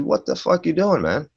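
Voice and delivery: high-pitched outraged "what are you doing"; mock-furious yell at friends; retold angry yell. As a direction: stop them cold, half-shouting in the retelling.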